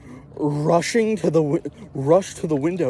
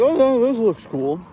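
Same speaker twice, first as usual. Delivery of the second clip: put-on excited kids; 8 semitones higher, 5 dB louder than usual. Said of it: "we were just like".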